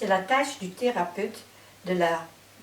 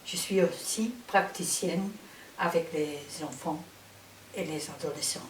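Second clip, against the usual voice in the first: Dutch accent in French. Real, not acted. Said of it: "Je suis néerlandophone, alors je m'excuse si mon français n'est pas parfait".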